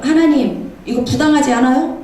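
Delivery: lightly acted protest to God; mock remonstrance; arguing. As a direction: challenge the unfairness, retelling it with some force. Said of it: "막 따져, 하나님 앞에".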